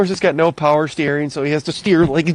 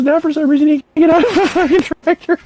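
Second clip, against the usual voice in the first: mocking remark; 10 semitones higher, 4 dB louder than usual. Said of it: "he goes".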